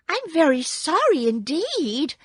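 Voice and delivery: put-on a scared little girl apologizing; frightened girl. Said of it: "truly frightened".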